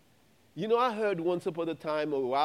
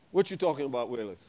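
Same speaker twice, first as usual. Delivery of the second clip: sitcom catchphrase; 5 semitones lower, much faster than usual. Retold or imitated. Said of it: "you won't know what I'm talking about".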